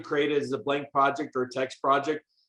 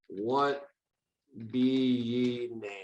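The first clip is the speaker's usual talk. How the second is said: pirate voice; 2 semitones lower, 4 dB quieter, much slower than usual. Shown as a demonstration. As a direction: ask it like a salty pirate. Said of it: "That sounds pretty piratey".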